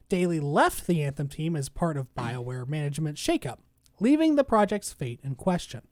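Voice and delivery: measured, even article-reading voice; news article read. Real, not acted. Host reads the Anthem article to co-host, news read. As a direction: read the report out evenly.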